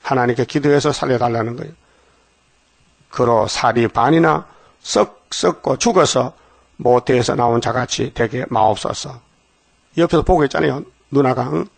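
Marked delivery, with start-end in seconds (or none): 3.1-9.2 slow scripture plea. Acted. Aaron's plea quoted from scripture.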